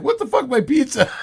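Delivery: high, laughing mock outrage; mock pissed-off outrage. Fan missing his pizza, mock outraged. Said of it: "then he got pissed".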